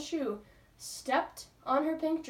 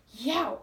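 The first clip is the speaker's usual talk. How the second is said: yelp of pain; 3 semitones higher, 7 dB louder than usual. A narrator's reading. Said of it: "escaped from Ramona".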